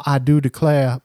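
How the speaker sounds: a hint of stagey Southern; old-timey movie Southern accent, understated; mock Southern accent. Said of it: "never heard anybody down here say".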